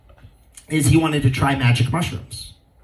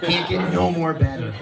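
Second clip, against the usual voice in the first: goofy high-pitched self voice; dopey high voice; 4 semitones higher than usual. Retold or imitated. Man with crepes, voicing his smug delight in a high goofy voice. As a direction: act it out like a blissed-out fool. Comic acting out his own thought.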